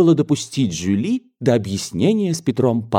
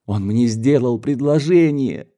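put-on proud young daughter; 3 semitones higher than usual.

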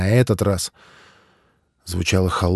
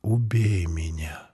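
pleading; 5 dB quieter, slower than usual. Acted. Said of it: "умоляюще произнёс".

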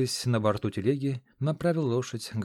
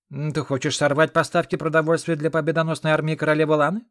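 louder, higher indignant challenge; raised voice; 5 semitones higher, 7 dB louder than usual. A narrator's reading. Ron pressuring the aide at the gate, raised voice. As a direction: lean on him with a raised voice. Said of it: "повысил голос Рон".

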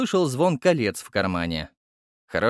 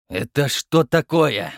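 slow, menacing growl; slow interrogating growl; 3 semitones higher, 4 dB louder, slower than usual. Acted. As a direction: growl the question at the boy. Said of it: "прорычал он".

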